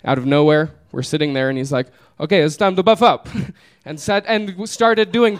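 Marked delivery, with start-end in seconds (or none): 2.2-3.3 lightly voiced Italian man. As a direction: announce it as the Italian, mock-serious. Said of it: "and the Italian man".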